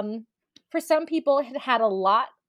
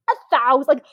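incredulous; 5 dB louder than usual. Retold or imitated. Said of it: "I read that last part and I'm like".

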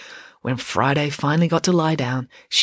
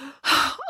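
resigned sigh; 11 semitones higher than usual. A narrator's reading. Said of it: "She realised the jig was up".

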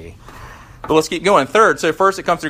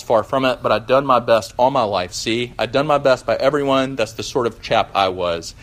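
self-righteous ghost. Acted. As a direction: defend yourself like a wronged working man. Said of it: "And here's how it went".

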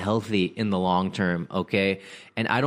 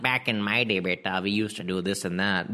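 lightly voiced old uncle; a hint of a grumbling old uncle. Uncle telling youngsters about his day, lightly put-on voice. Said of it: "sound like some old uncle".

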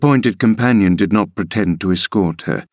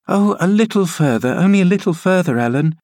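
put-on girlish, higher, quick pleading; a child begging for a little more; eager young Cathy; 10 semitones higher, faster than usual. Cathy pleads to keep going.

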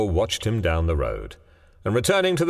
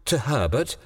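rising, high frightened questions; breathless panic; 10 semitones higher than usual. A narrator's reading. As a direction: stammer it out in growing fear. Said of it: "she asked breathlessly".

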